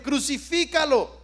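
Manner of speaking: Crucifícalo called out a little stronger; a mild retold crowd yell. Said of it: "gritaban más fuerte".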